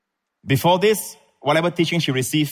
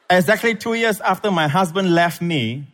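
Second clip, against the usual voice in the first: higher pitch, "after my husband left me" in one run; joined phrase, comma after ME; 4 semitones higher than usual. Shown as a demonstration. Preacher rereading the letter correctly, no break before "my husband left me". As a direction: link "after" straight to "my husband", pause only after "me".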